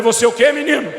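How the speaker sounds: high, loud incredulous cry; can't believe what the son just said; shocked disbelief. Retold or imitated. Father to son refusing salary, shocked loud disbelief.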